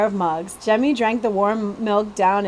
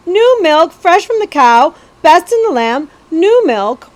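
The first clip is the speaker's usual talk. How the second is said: much higher, louder street cry; calling out wares; 7 semitones higher, 9 dB louder than usual. Acted. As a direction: sell milk to the passing crowd. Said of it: "the cow lady called out".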